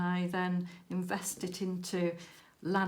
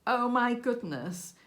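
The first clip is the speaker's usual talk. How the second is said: amazed exclamation; 4 semitones higher, 4 dB louder than usual. Retold or imitated. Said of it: "I was like".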